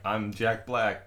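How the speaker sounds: Jack Black. Retold or imitated. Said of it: "he would be more into be like".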